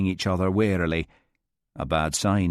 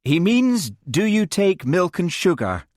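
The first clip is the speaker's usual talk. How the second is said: John's voice; 10 semitones higher, 4 dB louder than usual. A narrator's reading. John interposes.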